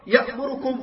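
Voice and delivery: "يأمركم" بضمات مخطوفة ناقصة الزمن; اختلس ضمة الراء في "يأمركم"; اختلاس الضمة. Shown as a demonstration. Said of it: "خطأ هذا إخوان". (قراءة "يأمركم" الخاطئة بحركة مبتورة)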